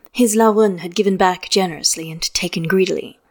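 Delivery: ordinary delivery, nothing marked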